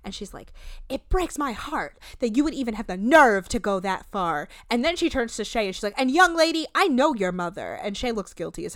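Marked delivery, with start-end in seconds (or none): 0.9-4.5 lightly acted wounded rebuke; a mildly theatrical scolding; Monique dramatic reading. Podcaster imitating host scolding a young woman, mild dramatic reading. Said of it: "doing a Monique dramatic reading". 6.0-7.7 Monique dramatic reading. Retold or imitated. Podcaster imitating host scolding young guest, mild dramatic reading. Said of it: "doing a Monique dramatic reading".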